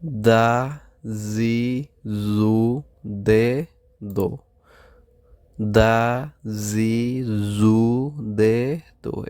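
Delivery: slow, separate Japanese syllables; teacher models each kana sound; syllable drill. Shown as a demonstration. Teacher drilling students on kana syllables, slow and distinct. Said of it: "এভাবে অনেকবার practice করবেন".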